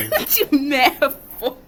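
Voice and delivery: slow, giggling tease; laughing taunt. Real, not acted. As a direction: drag out the taunt through a laugh. Taunt repeated mid-laugh.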